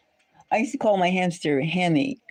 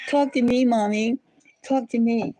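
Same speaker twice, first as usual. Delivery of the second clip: high, pleading cat voice; 7 semitones higher than usual. Retold or imitated. Owner voicing her Siamese cat, high and pleading. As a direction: whine it like a needy cat. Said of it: "He says".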